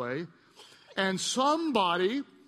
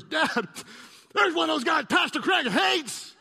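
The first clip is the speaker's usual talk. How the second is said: put-on high, louder little kid voice; child's voice; 8 semitones higher, 5 dB louder than usual. Pastor voicing his scared little son in the car, high kid voice. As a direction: voice the boy, higher and wide-eyed. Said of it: "He goes".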